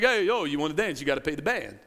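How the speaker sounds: low mobster voice, imitated; mob leg breaker. Preacher quoting a Rocky scene, low mob leg breaker. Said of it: "acted like a leg breaker for the mob".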